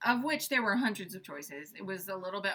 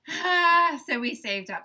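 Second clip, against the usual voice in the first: laughing; 6 semitones higher, 9 dB louder, slower than usual. Real, not acted. Echoing husband, laughing.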